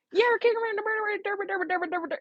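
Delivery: high, fast country gibberish; mock country accent, too quick to understand; rapid-fire country accent. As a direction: mimic a country caller dissolving into babble. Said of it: "it was rapid fire".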